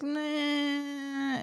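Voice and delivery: long, high, droning noise of apathy; indifferent whine. Retold or imitated. Viewer unmoved by this movie's couple, indifferent drone. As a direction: draw it out as an unimpressed drone.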